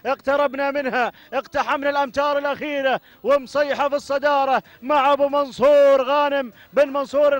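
excited rapid race call; live race commentary. Real, not acted. Commentator calling camels to the line, excited race call. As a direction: call the camel race finish with rising fervour.

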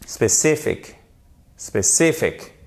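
SPECIFIC with strong stress on CI; stressed second syllable. Shown as a demonstration. Teacher drills French learners, stress on CI. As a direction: hit CI, relax the last vowel of SPECIFIC. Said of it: "Faites bien attention".

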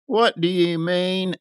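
a touch of a dreamy youth; lightly voiced visionary youth. A narrator's reading. Youth questioning the man he overheard, lightly voiced.

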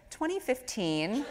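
put-on slow, amused child reply with a laugh; kid's answer. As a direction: mimic a little kid, laughing.

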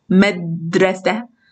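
مدرسة stretched slowly with مد held; slow syllable reading. Shown as a demonstration. Teacher repeating مدرسة slowly after the circle. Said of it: "أين المقطع الساكن هنا".

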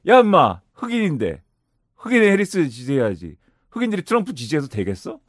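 mild imitation of a stern telling-off; mock scolding. Obama telling Black voters whom to support, mildly mock-scolding. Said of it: "오바마가 와가지고 호통을 치는 거예요".

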